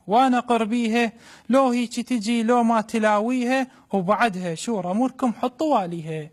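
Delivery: mother's voice in Iraqi dialect; iraqi arabic accent. Acted. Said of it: "بلهجة عراقية خالصة".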